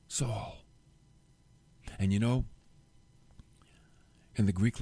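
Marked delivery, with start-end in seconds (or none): 0.1-0.6 whispered, tender calling of the name. Acted. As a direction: breathe his name gently, a soft whisper. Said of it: "It was tender".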